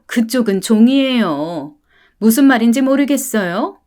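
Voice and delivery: sneering, haughty contempt; snobbish mother. Acted. Rich mother sneering at the poor family, haughty. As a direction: talk down like a spoiled elite.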